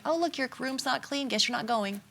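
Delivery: softly stated, unbothered; soft, calm tone, no anger at all. Shown as a demonstration. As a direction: state it calmly like a plain fact. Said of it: "very calmly".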